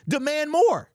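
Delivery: punchy rally cry. Acted. Rallying fans, loud and punchy. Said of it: "repeated rallying line".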